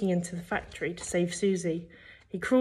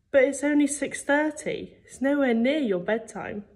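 higher-pitched, incredulous mum; lightly voiced mum, pitched up; puzzled mum; 7 semitones higher than usual. A narrator's reading. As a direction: query it as a baffled mother. Mum questions son reading.

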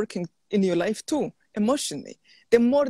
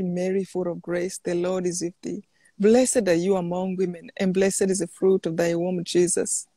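steady devout rosary recitation; measured prayer-leader voice; recited prayer; 2 semitones lower than usual. Acted. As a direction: lead the Hail Mary prayerfully.

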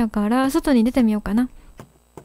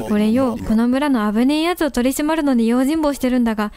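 lightly lowered tough-guy cat; スパーク. Acted. Reads Spark dialogue in gruff voice. (軽く低めのチンピラ口調)

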